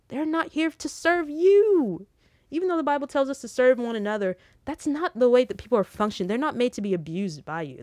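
firm sermon-style rebuke; emphatic preaching. Real, not acted. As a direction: drive the point home like a preacher.

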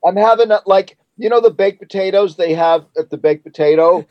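talking while eating; words round a bite of food; mouth full. Real, not acted. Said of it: "I'm eating my dinner while I talk".

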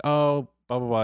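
mock-breezy friend rattling off nothing; mocking buddy. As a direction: toss it off like a know-it-all buddy. Buddy's dismissive answer, mocked.

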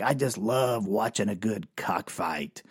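a hint of a gleeful bloodsport fan; bloodsport relish. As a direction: savor every word. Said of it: "The way he said it was like".

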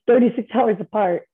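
thirty-six then a real laugh; laughing in disbelief. Real, not acted. Telling the host about her parents, laughing. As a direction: laugh breaks up thirty-six hours apart. Repeats the odd fact, laughing.

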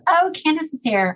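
high-pitched surprised announcement; retold surprised exclamation. Daughter spots a visitor from the window, surprised.

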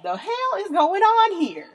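high, loud, slow disbelief; scandalized. Retold or imitated. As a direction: exclaim it in mock horror. Teen self scandalized.

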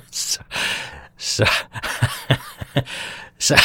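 helpless giggles breaking up the words; real laughing fit. Real, not acted. Host cracking up at his own joke, laughing apology.

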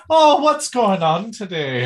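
teasing Irish cartoon accent; Lucky Charms accent. Co-host mimics the host's opening in a Lucky Charms accent. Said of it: "you were doing Lucky Charms".

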